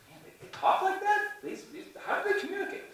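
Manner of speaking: high, squeaky amazed alien voice; a little alien gasping at how humans talk. Pretend. Alien reading Green Eggs and Ham, high and amazed.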